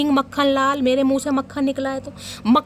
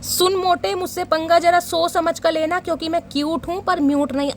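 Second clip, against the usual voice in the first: mock taunt; 2 semitones higher than usual. Reader voices the sender's cheeky warning, sassy mock taunt. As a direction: throw down the dare with cheek.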